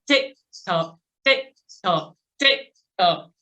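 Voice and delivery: brisk, even metronome tick-tock; hundred-cadence count. Shown as a demonstration. Coach takes riders up to a hundred, steady brisk count. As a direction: keep a regular beat at a moderate clip. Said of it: "go up to a hundred".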